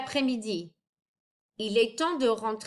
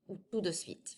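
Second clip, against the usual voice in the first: slower; 4 semitones lower, 9 dB quieter than usual. Shown as a demonstration. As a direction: tout de suite said slower. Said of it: "if you say it a little slower".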